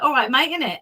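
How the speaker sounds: matey Hemel Hempstead accent. Shown as a demonstration. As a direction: show off your Hemel accent. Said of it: "I end up talking like that".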